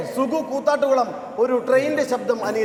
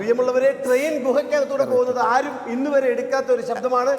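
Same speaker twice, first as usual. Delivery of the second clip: stage announcer. Real, not acted. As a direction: announce the act to a hall. Mock-grand announcement of act. (സ്റ്റേജ് അവതാരകന്റെ ശൈലി)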